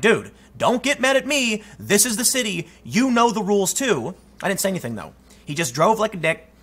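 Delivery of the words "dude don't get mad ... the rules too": retold annoyed rider. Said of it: "I'm like".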